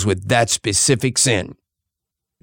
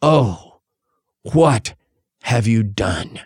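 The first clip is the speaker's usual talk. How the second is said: grieved question; 3 semitones lower, slower than usual. Retold or imitated. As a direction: ask it like a sorrowing father. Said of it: "It's a grieved question".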